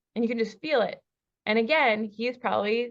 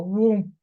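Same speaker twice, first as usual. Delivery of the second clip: mock whoom; 6 dB louder than usual. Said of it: "feel the energetic wall go".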